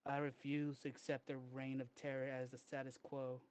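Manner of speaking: lightly voiced grand villain speech; roman orator. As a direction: declaim it like a doomsday orator.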